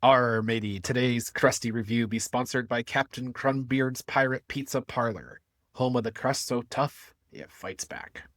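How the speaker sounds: lightly voiced pirate ad read; a hint of a hammy pirate pitchman. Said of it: "I hope you all enjoyed my pirate voice".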